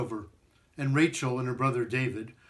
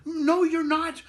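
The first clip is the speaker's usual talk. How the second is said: put-on high, louder child's call; children crying out; 11 semitones higher, 4 dB louder, slower than usual. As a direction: call after him eagerly. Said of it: "cried David and Rachel".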